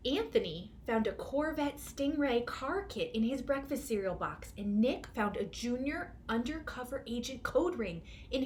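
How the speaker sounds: lively storybook reading; expressive picture book narration; reading to children. A narrator's reading. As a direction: read it like a children's story time. Reads picture book aloud.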